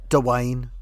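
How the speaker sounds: "Dwayne" with a short uh after the D; two-syllable Dwayne. Retold or imitated. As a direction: stretch "Dwayne" into two syllables, duh-wayne. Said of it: "he says".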